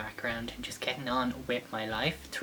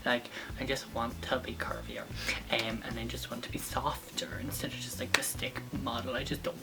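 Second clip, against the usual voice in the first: whispering; 2 semitones lower, 6 dB quieter than usual. Real, not acted. Whispered confession.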